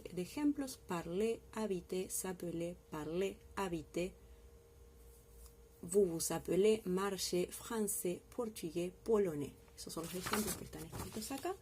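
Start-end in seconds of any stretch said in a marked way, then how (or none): 0.9-9.5 "parler", "habiter" read with final é clearly; careful word list for students; teacher reading vocabulary aloud; clear model reading. Shown as a demonstration. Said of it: "ahí les leo bien la lista".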